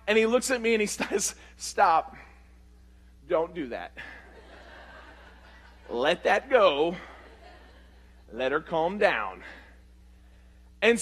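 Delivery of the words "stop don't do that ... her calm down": slow, low, measured husband; steady, unhurried de-escalation; calming restraint. Retold or imitated. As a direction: hold someone back calmly, with pauses. Husband calmly holding him back.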